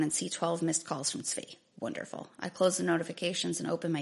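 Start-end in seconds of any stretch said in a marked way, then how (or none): 1.8-2.3 a flat, dry sarcastic wonderful, quietly; dry sarcasm. Retold or imitated. Narrator sees twelve missed calls, dry sarcastic quiet remark. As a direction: roll your eyes at the word.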